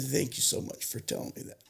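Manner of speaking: hushed, breathy thanks through tears; tearful whisper. Retold or imitated. Counselor to tearful patient, whispered through tears. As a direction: whisper it gently as she cries. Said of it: "she started crying with me".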